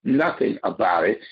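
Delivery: "nothing" deliberately emphasized; stress on nothing. Real, not acted. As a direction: put the weight on "nothing". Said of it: "I stress the word nothing".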